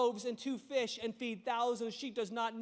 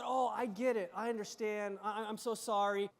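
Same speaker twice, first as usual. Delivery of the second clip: softer, gentle apology; imagined kind prophet, softer; nicer version; 3 semitones lower, 3 dB quieter than usual. Retold or imitated. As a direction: ease it down kindly and softer. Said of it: "wouldn't it be nicer if he said".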